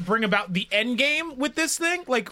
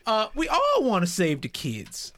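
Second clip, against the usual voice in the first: Rick voice; 3 semitones higher than usual. Pretend. Player to the interrogated man, in a put-on disguise voice. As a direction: slip into a hammed-up disguise voice. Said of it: "Hey now, this is the voice".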